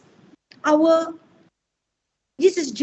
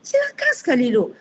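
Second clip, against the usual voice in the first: affectionate teasing; 3 semitones higher, faster than usual. Shown as a demonstration. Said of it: "a very nice term of endearment".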